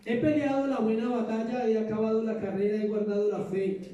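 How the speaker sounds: bold, ringing reading of Paul; proclaimed scripture. Acted. Pastor reads Paul's words aloud to the church, proclaiming boldly. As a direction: declare the verse out with conviction. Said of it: "Hoy leí esta parte".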